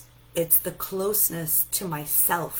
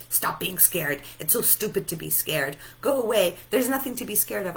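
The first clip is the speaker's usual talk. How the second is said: mock dismissive parent; 4 dB louder than usual. Parent dismissing her girls' fear, mock impatient scolding. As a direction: brush the fear off, building on "Go away". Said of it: "I'm not gonna tell them".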